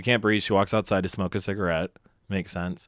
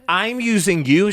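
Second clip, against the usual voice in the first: mock angry quote; 9 semitones higher, 5 dB louder, slower than usual. Retold fight, his own outburst.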